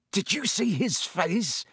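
voiced as Ron, high and slow; gleeful boy, savouring the moment. A narrator's reading. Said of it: "said Ron gleefully".

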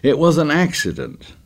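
high-pitched agitated protest; agitated insistence. A narrator's reading. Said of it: "He gesticulated widely again".

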